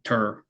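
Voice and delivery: "tur" dropped low into the R. Shown as a demonstration. Teacher showing learners the R, "tur" said low. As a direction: sink the pitch on "tur". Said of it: "R 사운드 낮음입니다".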